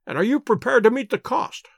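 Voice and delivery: put-on high, fussy old man, unhurried; an irritable old lord introducing himself; querulous old lord. A narrator's reading. Lord Mount James scolding Overton, high querulous.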